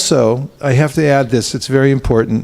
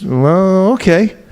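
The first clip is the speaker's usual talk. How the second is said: higher, light monkey voice; monkey's voice; 6 semitones higher, much slower than usual. Retold or imitated. Monkey accepts the alligator's lunch invitation in a higher voice. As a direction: pitch it up for the little monkey. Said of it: "monkey says".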